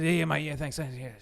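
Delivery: lightly imitated rambling street man; a hint of an out-of-it bloke's voice; homeless man's mumble. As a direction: mimic an addled man's repeated thanks. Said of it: "that's how he speaks".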